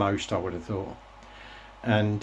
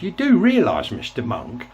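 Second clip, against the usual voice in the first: louder, slow, pointed mock telling-off; retold furious retort; 4 semitones higher, 4 dB louder, slower than usual. Telling off the BBC DJ, louder and slower retold anger. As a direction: lay into him word by word. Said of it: "I was furious".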